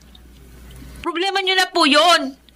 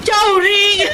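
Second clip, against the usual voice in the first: tearful call; 3 dB louder than usual. Acted. Niece calls aunt in relief.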